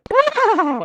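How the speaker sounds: high, imitated horse neigh; whinny like a startled horse; quick mimicked neigh. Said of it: "as a horse".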